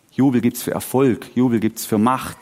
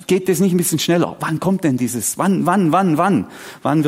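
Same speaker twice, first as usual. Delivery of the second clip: higher, insistent acted impatience; impatient pleading; 4 semitones higher than usual. Preacher voices his waiting on Jesus, impatient. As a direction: press for an answer, word after word.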